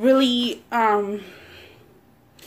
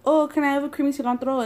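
a higher, quick, nicely-nice request; sweet polite asking; 4 semitones higher, faster than usual. Retold or imitated. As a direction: ask the girl sweetly. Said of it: "And I asked the girl".

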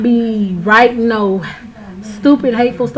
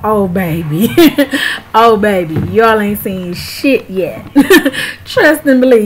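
knowing laugh, louder; laughing warning; 3 dB louder than usual. Real, not acted. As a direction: chuckle at what's coming.

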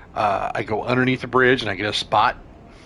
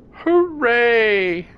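excited; 12 semitones higher, 4 dB louder than usual. Real, not acted. Summon sign appears, cheering.

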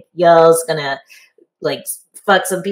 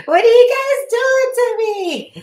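much higher, laughing mock-disgusted squeal; 8 semitones higher than usual. Acting mock-disgusted reaction on air.

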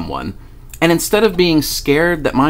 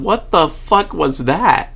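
amused out loud; 5 semitones higher, slower than usual. Retold or imitated. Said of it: "I'm talking out loud".

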